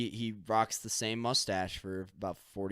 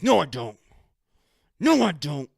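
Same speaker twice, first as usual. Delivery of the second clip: louder, hammed-up denial; stubborn denial; 7 semitones higher, 13 dB louder than usual. Husband denies the oats to his wife, in a loud mock denial. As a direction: flatly refuse it, loud. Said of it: "he's like".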